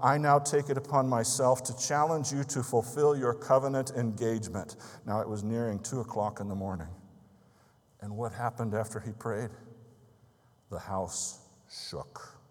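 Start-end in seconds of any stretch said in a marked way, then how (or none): 0.0-4.8 firm, slightly raised challenge to God; praying man challenging God, firm and raised; crying out to God. Retold or imitated. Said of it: "he cried". 10.7-12.4 whispered, slow and hushed; preacher telling the miracle in a hushed whisper; hushed awe. A narrator's reading. Dramatic climax of the story.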